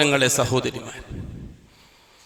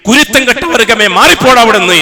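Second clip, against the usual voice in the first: angry divine dismissal. Acted. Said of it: "അല്ലാഹു ... പറയുന്ന വാക്കതാണ്".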